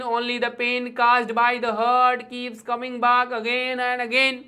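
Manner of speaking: slow, measured verse reading; demonstrating how to read a poem; rhythmic poem recitation. Shown as a demonstration. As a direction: recite it slowly, in rhythm, line by line. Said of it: "इस तरह से पोम को पढ़ते हैं".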